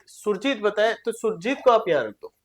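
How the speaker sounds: ordinary talk, nothing marked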